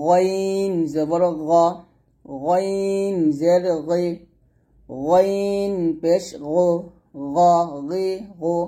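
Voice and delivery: slow, drawn-out, thick গইন; heavy ghayn. Shown as a demonstration. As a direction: stretch গইন and keep গ heavy. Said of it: "গইন মোটা করবেন". (গইন মোটা করে টেনে)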